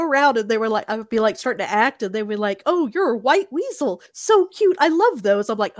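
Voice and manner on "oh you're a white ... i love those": imitating a gushing stranger, pitched much higher. Stranger cooing at the pet player, gushing much higher. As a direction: coo over the cute weasel. People gushing over him.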